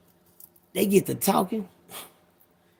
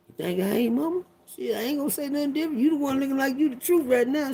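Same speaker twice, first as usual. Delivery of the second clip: put-on fast excited kid; 7 semitones higher, 5 dB quieter than usual. Kid's inner voice, excited.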